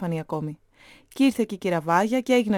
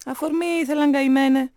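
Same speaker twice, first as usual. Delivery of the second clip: higher, forceful interjection; heated objection; 6 semitones higher, 5 dB louder than usual. A narrator's reading. Cousin rebutting grandfather on students, heated objection. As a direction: cut in to set him straight. Cousin cuts in during political argument.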